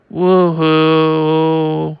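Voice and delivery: a huge booming wail that rattles the ship; sonic bellow. Acted. Giant boss wails his sonic voice at the ship. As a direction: let it roar out long and loud.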